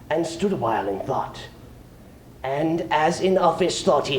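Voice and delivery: rising adventure recitation with bursts; dramatic poem reading. Acted. Reading Jabberwocky to the audience, dramatic recitation. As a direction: tell the battle like a ballad.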